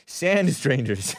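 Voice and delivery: said through a laugh; laughing correction. Real, not acted. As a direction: chuckle the words out.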